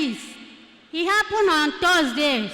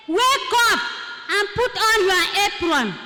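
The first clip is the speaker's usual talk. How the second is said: retold command, raised and higher; commanding wake-up call; 3 semitones higher than usual. Mysterious voice waking her on the bus, urgent command. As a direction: imitate a voice rousing a sleeper.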